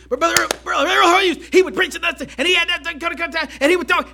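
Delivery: a hint of Brother Earl's high preaching voice; lightly voiced old Southern preacher, up high. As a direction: mimic an old country preacher. Imitating old preacher Brother Earl.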